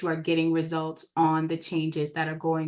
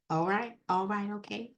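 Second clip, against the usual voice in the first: softly crooned catchphrase, trailing quieter; Tabitha voice; 5 dB quieter than usual. Retold or imitated. Instructor playfully quoting Tabitha to students, light impression. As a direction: lightly imitate her, easing down softer. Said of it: "In my Tabitha voice".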